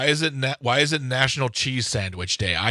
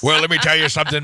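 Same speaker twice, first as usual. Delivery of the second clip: hammed-up pirate talk; mock pirate brogue; 3 semitones higher, 5 dB louder than usual. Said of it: "That's more Scottish than pirate".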